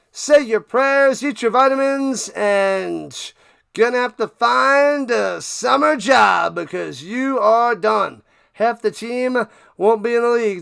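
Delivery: mocking taunt. Real, not acted. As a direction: rub it in, loud and gloating. Taunting the losing team.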